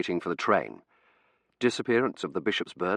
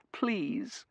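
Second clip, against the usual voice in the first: whispered plea; 13 semitones higher, 6 dB quieter than usual. Acted. Verity begs her to stop.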